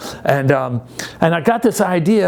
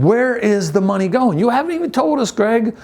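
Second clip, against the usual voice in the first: imitating the kids asking; 6 semitones higher than usual. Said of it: "you're probably wondering".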